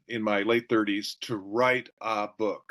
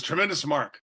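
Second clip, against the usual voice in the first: exuberant mentor, pitched higher; Charlie Tremendous Jones; 4 semitones higher than usual. Retold or imitated. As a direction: imitate an enthusiastic mentor making his offer. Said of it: "That's how he talked".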